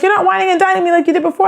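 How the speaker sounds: high, fast whiny complaint; lightly acted grievance; mock complaint.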